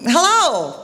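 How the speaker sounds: high, drawn-out call into the woods; father calling out. Retold or imitated. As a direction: call out as if to someone far off. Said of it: "And the father says".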